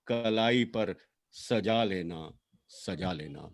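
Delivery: measured lament, lines rising and then falling away; poem recitation. Acted. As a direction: recite a sister's farewell with long pauses between phrases.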